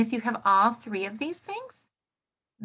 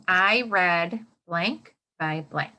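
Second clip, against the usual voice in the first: slow choral prompt; 2 semitones lower, slower than usual. Shown as a demonstration. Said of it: "We'll do the first point together".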